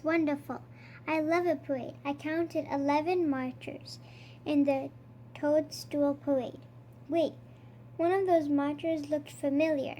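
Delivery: lightly voiced Count reading a counting story; a hint of the vampire Count, savouring each number; storybook Count, counting with relish. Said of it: "I am the Count".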